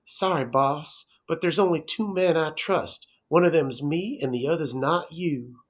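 a hint of a bad Southern accent; terrible Southern accent. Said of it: "throw on his terrible accent".

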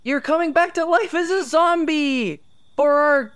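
high, eerie Halloween announcer; spooky host voice. Acted. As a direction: croon it like a haunted host.

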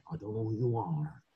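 low quiet Neeson threat; Liam Neeson voice. Retold or imitated. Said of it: "suara dia kan kayak".

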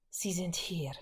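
soft breathy whisper. Acted. Wanda warning the prisoner as soldiers come, whispered. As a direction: whisper so no one hears. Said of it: "wisperte sie".

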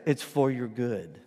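calm, matter-of-fact comfort; calm reassurance. Acted. Owner calmly answers the wailing dog.

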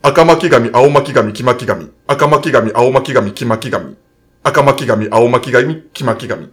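careful tongue twister recital. Shown as a demonstration. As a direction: say it steadily like a tongue twister drill. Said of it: "早口言葉を言います".

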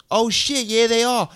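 high-pitched imitation of a girl; overheard girl. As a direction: mimic her excited recognition. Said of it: "And the girl goes".

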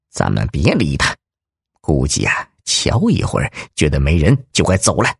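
a gruff crook whispering to his partner; low bandit voice. Acted. Tall bandit, hushed.

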